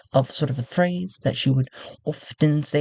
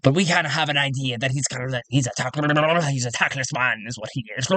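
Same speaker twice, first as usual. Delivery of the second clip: fast gruff voice; much faster than usual. Acted. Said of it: "His accent kinda just keeps fluctuating".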